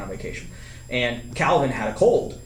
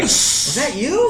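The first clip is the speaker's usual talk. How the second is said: laughing mock question; 10 semitones higher, much slower than usual. Mimicking the friend, laughing.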